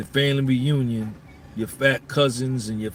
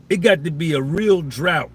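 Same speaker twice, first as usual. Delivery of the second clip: loud emphatic; 3 semitones higher, 4 dB louder than usual. Acted. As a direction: push it out loud.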